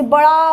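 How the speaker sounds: बड़ा drawn out for emphasis; stress on बड़ा. Shown as a demonstration. Teacher models a story word, stressed बड़ा. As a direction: lean heavily on बड़ा, stretching it. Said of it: "stress करके बोलेगी".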